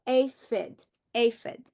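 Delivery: "aphid" broken into open A and closed phid; split into syllables. Shown as a demonstration. Teacher showing syllable breaks to students, clearly. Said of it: "open syllable, closed syllable".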